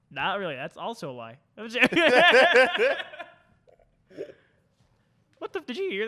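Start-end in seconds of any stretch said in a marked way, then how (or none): 2.0-3.3 into a cup. Real, not acted. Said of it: "was that you laughing in your cup".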